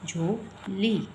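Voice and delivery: झोली very slow, long vowels; drawn-out jholi. Shown as a demonstration. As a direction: stretch out झोली slowly. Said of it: "ज़्यादा stress दे के बोल रहे हैं".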